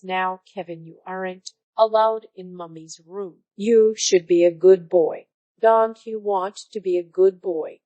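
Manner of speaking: mildly indulgent mother cooing; sweetly indulgent, coaxing the child. Retold or imitated. Mother scolding her son gently, indulgent. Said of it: "says in a very indulgent voice".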